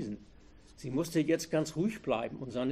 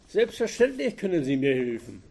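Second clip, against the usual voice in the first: a touch of cynical mockery, louder; 6 dB louder than usual. A narrator's reading. Robber mocking the helpful driver, cynically. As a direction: sneer the offer back. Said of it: "antwortete er zynisch".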